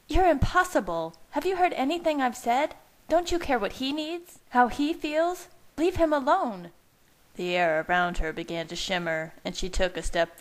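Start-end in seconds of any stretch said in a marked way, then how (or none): 0.1-5.5 high-pitched, outraged scolding; exploding temper. A narrator's reading. Leah's temper blows at Bella, angrily scolding. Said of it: "Leah's temper exploded". 5.8-6.7 high-pitched angry demand, short of a scream; exploding temper. A narrator's reading. Leah orders Bella off Jake, angry. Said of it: "Leah's temper exploded".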